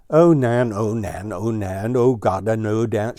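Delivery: mild shout. Acted. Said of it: "shouted Deet Deet".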